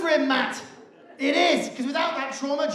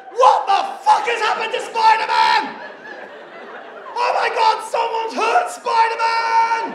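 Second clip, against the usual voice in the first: put-on shocked child; 8 semitones higher than usual. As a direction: gasp it out in sheer horror. Toddler's shocked reaction voiced.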